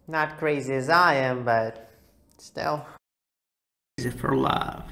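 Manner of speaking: lightly voiced drawling cowboy. Vlogger playing cowboy to viewers, lightly voiced cowboy. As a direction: play a friendly Texas cowboy.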